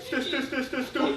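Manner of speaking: stuttering. Shown as a demonstration. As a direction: stammer on the first syllable, laughing. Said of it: "he stutters in his texts".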